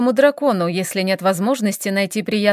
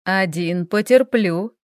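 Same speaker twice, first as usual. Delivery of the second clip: smug; slower than usual. Acted. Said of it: "улыбнулся Хэл самодовольно".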